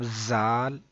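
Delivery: जाल with a hard buzzing z; wrong hard z. Shown as a demonstration. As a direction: say जाल with a sharp whistling z. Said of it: "ऐसे नहीं पढ़ना".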